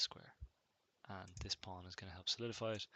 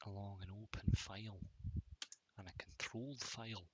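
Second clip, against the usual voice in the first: put-on whispered Scottish accent. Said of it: "That's a really strangled Scottish accent".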